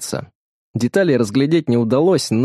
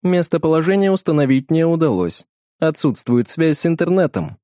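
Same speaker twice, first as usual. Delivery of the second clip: higher, even smart-watch assistant voice; Alisa voice assistant; 6 semitones higher than usual. Acted. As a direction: speak like a chiming voice assistant. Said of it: "прозвенел колокольчиком голос Алисы". (голос помощника Алисы из умных часов)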